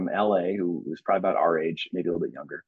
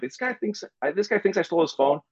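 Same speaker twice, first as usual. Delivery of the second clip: frantic pleading; 5 semitones higher than usual. Retold or imitated. Pleading with bouncers.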